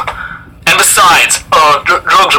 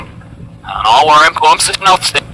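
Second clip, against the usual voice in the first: backwards speech; 4 semitones lower, 3 dB quieter than usual. Shown as a demonstration. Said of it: "I'm gonna reverse it".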